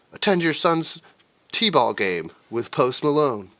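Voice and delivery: drawn-out mock TV spot; mock ad pitch. Another mock ad line.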